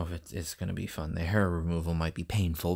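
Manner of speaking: low, soft, unsure restatement; walking back the enthusiasm under the breath; doubtful backtrack. Real, not acted. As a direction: drop it down low and quiet. Doubting own earlier upbeat claim.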